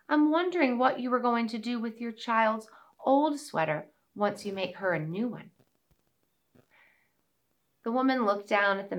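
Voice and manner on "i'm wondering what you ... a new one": a hint of a small mouse; lightly voiced little mouse; tiny squeaky critter. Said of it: "said the little mouse".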